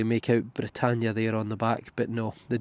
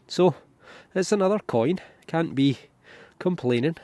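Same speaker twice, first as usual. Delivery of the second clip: pleased; 6 semitones higher, 3 dB louder than usual. Real, not acted. Pleased with the find.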